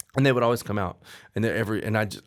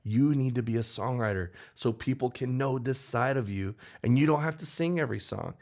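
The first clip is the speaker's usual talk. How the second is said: softer, lightly lifted coaxing; gentle encouragement; 3 semitones higher, 3 dB quieter than usual. Retold or imitated. Girlfriend urging him toward songwriting, gently encouraging. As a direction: retell a partner's pep talk tenderly. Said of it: "she had always been encouraging me".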